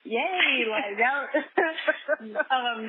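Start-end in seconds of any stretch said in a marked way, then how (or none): 0.0-0.7 mock enthusiasm. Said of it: "I'm like".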